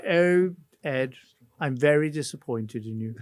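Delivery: lightly voiced mock Mandelson, slow on the disappointment; a hint of a silky, disappointed elder statesman; Peter Mandelson. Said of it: "I could do a better Peter".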